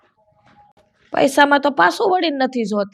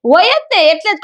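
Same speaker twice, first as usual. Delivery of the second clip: emphatic; 4 semitones higher, 4 dB louder than usual. Acted. Sarpanch's wife asserting status.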